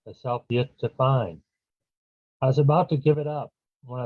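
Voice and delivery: measured verse with pauses and falling line ends; unhurried poetry-reading cadence; poem reading. Acted. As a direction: recite your own poem to a live audience. Reads own poem aloud.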